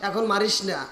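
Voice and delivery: soft, low begging; weak pleading. Acted. Haresa begs Abu Jahl to release him, weak low pleading. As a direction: let the voice sink into a plea.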